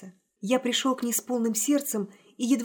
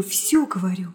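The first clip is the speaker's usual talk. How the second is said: lower, dropped repeat; 4 semitones lower than usual. Acted. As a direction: let it fall away. Repeated phrase, softer echo.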